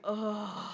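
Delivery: exasperated, dismissive "ugh"; low-key mock exasperated sigh; eye-rolling groan. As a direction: imitate a husband's fed-up groan. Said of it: "he rolls his eyes like".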